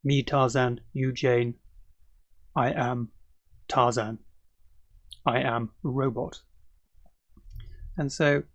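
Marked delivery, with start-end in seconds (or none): 0.0-4.2 short separate chunks with pauses between; lightly voiced jungle man, halting phrases, dropping lower; Tarzan. Shown as a demonstration. Teacher imitating how stiff full forms sound, halting Tarzan style. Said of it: "more like Tarzan would speak". 5.2-6.4 slow, softer robot voice; mock robot. Shown as a demonstration. Teacher showing English learners stiff full forms, mock robot. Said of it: "sound more like a robot".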